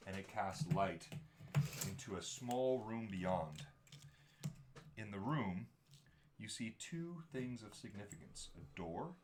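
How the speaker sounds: slow scene-setting narration; game master narration. Acted. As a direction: set the dungeon scene slowly.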